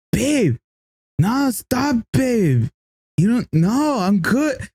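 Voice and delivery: high-pitched imitation of yelling into a phone; whine-yell it high without real volume; mock yelling. Stranger on his phone to his girlfriend, mock yell. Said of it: "he's yelling like".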